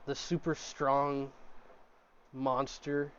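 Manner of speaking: hushed starstruck server, slowed down; leaning in, hushed. Acted. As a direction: lean in and ask it quietly. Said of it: "leans in, and he goes".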